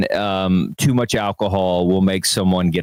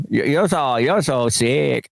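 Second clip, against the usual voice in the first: drawn-out mock Asian accent; mock Asian doctor; 3 semitones higher, slower than usual. Doctor giving a patient bad news, mock Asian accent. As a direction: stretch the words in a caricatured Asian accent. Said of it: "if your doctor talk like that".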